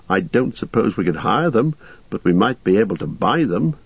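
mildly hesitant, tentative suggestion; doubtful. Acted. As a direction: float the idea with a touch of doubt. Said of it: "he added doubtfully".

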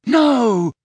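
loud, high cry of denial; long, panicked cry; horrified shout. A narrator's reading. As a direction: shout out in alarm. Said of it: "shouted Harry".

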